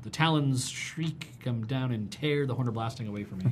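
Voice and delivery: slow hushed storytelling whisper; dramatic whisper. Acted. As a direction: whisper the card like a spooky tale. Dramatic narration of card text.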